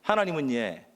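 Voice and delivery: walk them through the Gyeongsang line; teaching the Gyeongsang phrase calmly; Gyeongsang dialect. Shown as a demonstration. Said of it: "이 경상도 버전이 있다라는 거예요".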